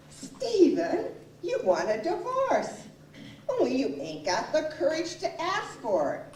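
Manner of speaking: high-pitched mimicry of an accusing wife; imitated challenging wife. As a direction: voice the wife calling his bluff. Voices wife challenging her husband.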